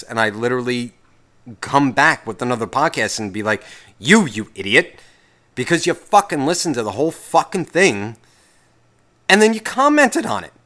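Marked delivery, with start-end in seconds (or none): 4.0-10.5 building to a loud, high taunt; mock retort. Answering the hateful emailers, rising to a mocking shout. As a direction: throw it back at them, rising to a shout.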